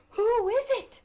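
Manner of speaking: loud, high frightened cry; startled shout. Acted. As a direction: call out in fright. Startled ant calls out.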